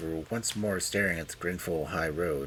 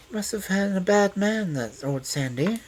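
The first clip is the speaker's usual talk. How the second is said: higher-voiced sympathetic woman; 13 semitones higher, 5 dB louder than usual. A narrator's reading. Detective humouring the old man about Sandy, sympathetic. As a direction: coax with sympathy, pitched up. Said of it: "said Loveday sympathetically".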